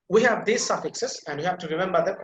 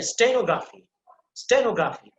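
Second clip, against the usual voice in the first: "stenography" with a strong O; stress on O; 5 semitones higher, 4 dB louder than usual. Shown as a demonstration. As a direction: punch the O in "stenography". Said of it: "O, that is emphasized here".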